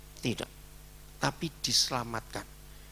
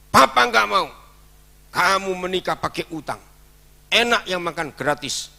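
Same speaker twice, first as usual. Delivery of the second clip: put-on much louder and higher, scolding the young man; angry scolding; 7 semitones higher, 10 dB louder than usual. Pastor scolds the groom over his loan, loud. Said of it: "saya emosi, saya marah".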